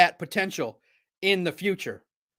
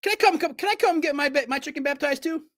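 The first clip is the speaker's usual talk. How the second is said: eager pleading; 7 semitones higher than usual. Retold or imitated. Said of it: "I'm like".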